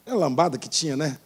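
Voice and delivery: usual speaking voice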